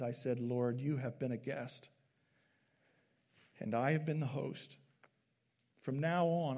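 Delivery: earnest read-aloud storytelling from the pulpit; preacher reading a devotional story aloud. Acted. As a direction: read the tale warmly to the congregation.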